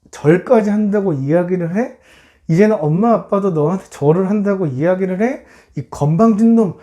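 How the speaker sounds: mildly indignant questions, rising at the end; acted resentment, lightly voiced; indignant brothers. Older brothers resenting Joseph's dream, mild indignation. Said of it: "분노와 화가 막".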